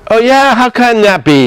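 high-pitched mock indignation; an exaggerated, incredulous comeback; defensive retort. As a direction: push it up high, challenging and defensive. Acted defensive retort to wife.

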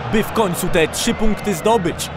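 normal talking voice

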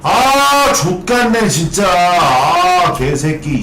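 high, loud raging curses; frustrated cursing. Real, not acted. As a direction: rage at the screen. Fight goes wrong again.

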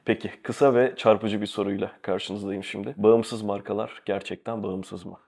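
slightly blocked nose, head cold; stuffy nose. Real, not acted. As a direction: talk through a light head cold. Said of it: "hafif nezle sesiyle". (hafif nezleli ses)

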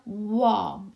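warm said as one joined 워 syllable; demonstrated pronunciation. Shown as a demonstration. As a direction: model "warm" with w gliding into a dark 어. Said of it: "이렇게 발음 나겠죠".

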